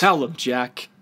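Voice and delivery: punchy hype-man delivery; emphatic shout-out to the host; hype man call. Real, not acted. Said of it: "I was just, like, emphasizing".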